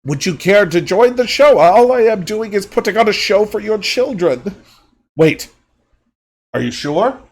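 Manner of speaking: high, sly and mocking; owl creep voice. Owl creature mocks the doll, high and sly. Creep performer addressing father.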